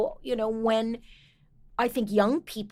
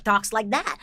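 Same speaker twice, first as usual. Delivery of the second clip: lightly imitated Russian accent. Actor shows how her Russian colleague talks, light Russian accent. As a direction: talk with a quick touch of a Russian accent. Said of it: "Gendy is Russian".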